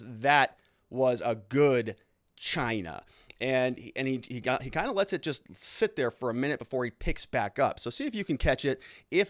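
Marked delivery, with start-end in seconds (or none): 0.0-3.0 imitating slow, drawn-out self-approval; savoring to himself. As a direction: stretch it out, as if savoring privately. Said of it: "split second hair trigger just moment where he goes".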